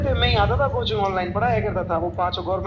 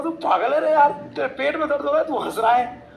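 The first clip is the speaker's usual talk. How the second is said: doctor scolding; 5 semitones higher than usual. Retold or imitated. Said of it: "वो doctor बोल रहा".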